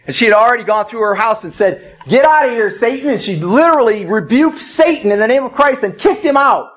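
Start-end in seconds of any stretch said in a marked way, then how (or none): 2.1-3.1 raised, firm banishing command; commanding rebuke. Retold or imitated. Wife orders Satan out of her house, commanding rebuke. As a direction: cast the intruder out firmly.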